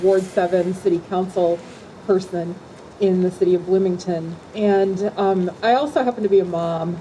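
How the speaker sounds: muffled behind a face mask; through a mask. Real, not acted. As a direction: speak through a covering mask. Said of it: "with my mask on".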